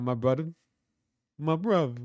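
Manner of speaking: lightly imitating a Brazilian fighter's accent; amateur Brazilian-accent catchphrase; attempted Brazilian accent. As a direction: have a rough go at a Brazilian accent. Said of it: "I have to do the Moicano accent better".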